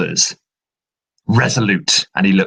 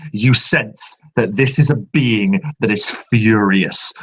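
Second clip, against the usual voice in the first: ordinary talk, nothing marked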